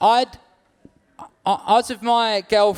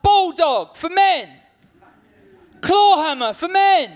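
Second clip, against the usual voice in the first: booming ad voice, higher and louder; macho advert voice; 11 semitones higher, 4 dB louder, slower than usual. Pretend. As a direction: growl it like a manly ad. Mock product names.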